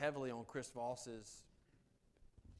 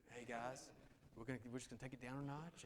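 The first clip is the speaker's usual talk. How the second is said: late-night DJ voice; 5 dB quieter than usual. Shown as a demonstration. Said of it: "late-night D J radio voice".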